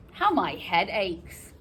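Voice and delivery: mild theatrical suffering; aching nurse. Acted. Nurse complains of her headache.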